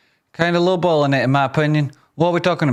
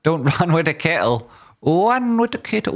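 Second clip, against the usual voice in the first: laughing; 4 semitones higher than usual. Real, not acted. Laughing while rereading message.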